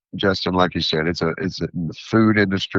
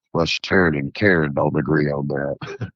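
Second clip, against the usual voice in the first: lower-pitched hillbilly accent; 4 semitones lower than usual. Shown as a demonstration. Vendor joking as he does at markets, hillbilly accent. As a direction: do a silly hillbilly voice. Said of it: "in my hillbilly accent".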